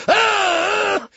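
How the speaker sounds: high loud whoop; mock whoop. Farley whooping at the strip club.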